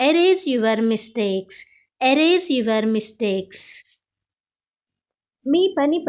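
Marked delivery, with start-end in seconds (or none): 0.1-1.6 very slow, clear classroom English; slow model phrase. Shown as a demonstration. Teacher modelling the phrase for Telugu students, slow and clear. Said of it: "అప్పుడు ఇలా అంటాం". 2.1-3.6 very slow, clear classroom English; slow model phrase. Shown as a demonstration. Teacher modelling the phrase for Telugu students, slow and clear. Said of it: "అప్పుడు ఇలా అంటాం".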